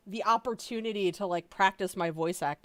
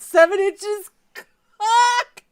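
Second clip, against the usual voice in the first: much higher, louder, slow, dissolving into laughter; laughing while reading; 13 semitones higher, 14 dB louder, much slower than usual. Real, not acted. Reading a crude fanfic title, laughing. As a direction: crack up mid-line.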